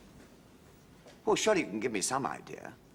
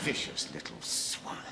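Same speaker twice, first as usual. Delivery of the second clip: laughing it off; 11 semitones lower, 4 dB quieter than usual. Acted. Husband explaining scratches from the club cat, laughing. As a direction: chuckle through the insult to the cat.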